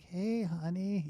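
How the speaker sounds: slow, high, soft 1940s radio voice; old recording voice; old-timey voice. Retold or imitated. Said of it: "that old-timey voice".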